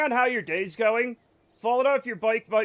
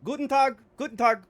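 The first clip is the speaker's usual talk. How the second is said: German greeting; 6 semitones higher, 5 dB louder than usual. Shown as a demonstration. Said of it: "That means good day".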